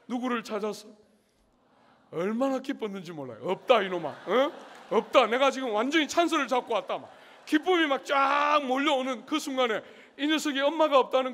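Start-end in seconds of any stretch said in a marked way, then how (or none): 3.4-7.0 put-on loud, triumphant taunt at the cornered child; mock-villain glee, loud; gleeful gloating. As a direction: crow over finally catching her alone. Pastor gloating, mother absent.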